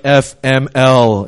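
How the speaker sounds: slow, loud, spelled-out exasperation; acted life-hating groan; fed-up with life. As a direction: draw out each letter, loudly fed up. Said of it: "And you hate your life".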